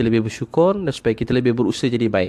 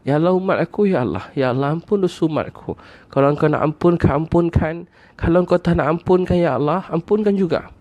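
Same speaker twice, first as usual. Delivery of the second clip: retold heartfelt prayer, pitch climbing toward the end; earnest supplication; 4 semitones higher than usual. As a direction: plead sincerely for your people, growing more insistent. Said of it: "Nabi punya sungguh-sungguh doa untuk kita".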